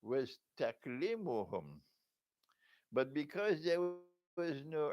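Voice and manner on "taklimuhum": "taklimuhum" as tak-LEE-mu-hum; spoken form, taklimuhum. Shown as a demonstration. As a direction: land firmly on "taklimuhum", k straight onto l. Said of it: "when it was spoken, was".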